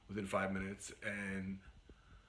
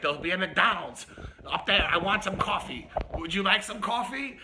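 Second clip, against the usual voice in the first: loud, raised-pitch imitation of an insistent rider; demanding passenger; 6 semitones higher, 8 dB louder than usual. Passenger to driver spotting a McDonald's, loud and insistent. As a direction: call it out high and loud to the driver.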